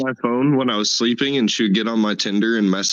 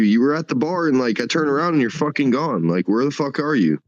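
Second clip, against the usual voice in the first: higher, incredulous retold rant; mock frustrated disbelief; exasperated; 5 semitones higher than usual. Retelling his reply to lost friend, exasperated. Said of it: "I'm like".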